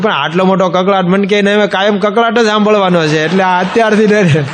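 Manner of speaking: giggling over the joke; laughing through quotes. Real, not acted. Laughing as he retells the band joke to listeners.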